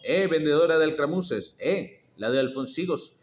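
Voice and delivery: loud call after the vendor. Acted. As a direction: shout to stop her as she walks off. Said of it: "y gritó".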